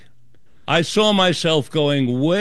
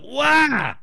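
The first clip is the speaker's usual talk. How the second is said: mock yell of shock, pitched up; retold yell of pain; 9 semitones higher than usual. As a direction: yelp it out high like a sudden pain. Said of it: "like that".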